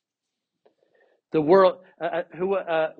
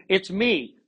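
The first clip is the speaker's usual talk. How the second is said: excited text; 4 semitones higher than usual. Shown as a demonstration. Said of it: "exclamation point".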